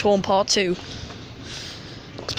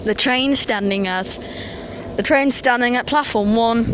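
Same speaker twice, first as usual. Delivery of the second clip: announcer voice. Retold or imitated. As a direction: read out the stops like a station announcer. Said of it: "That's just a quick way of saying it".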